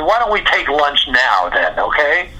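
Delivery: mildly pushy retold suggestion; a little attitude. Guitarist proposing lunch to the conductor, a little attitude. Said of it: "I had a little attitude".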